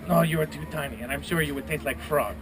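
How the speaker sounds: lightly voiced griffin with French-Spanish accent; mock French-Spanish griffin. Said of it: "it's a Fren-, French, Spanish thing going on".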